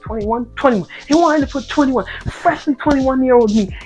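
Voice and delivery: outraged rant. Real, not acted.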